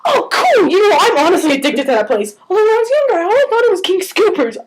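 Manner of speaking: imitating an eager, high-pitched talker; breezy retold excitement; enthusiastic chatty quote. Acting out friendly musician's chatty reply.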